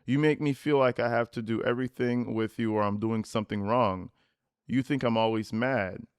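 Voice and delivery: Dom's text, voiced low. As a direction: mutter it like the fed-up boyfriend. Reading Dom's texts.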